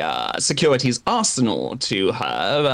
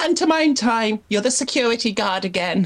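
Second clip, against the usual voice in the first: put-on toddler voice, higher; 9 semitones higher than usual. Voicing a toddler waking up tied beside a companion: toddler Rothgon voice. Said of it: "a toddler Rothgon will be slumped down".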